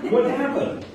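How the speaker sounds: a high, loud, eager question to the class; excited quiz. Acted. Docent quizzing kids about the batted ball, eager high question. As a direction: pull the kids in with a big question.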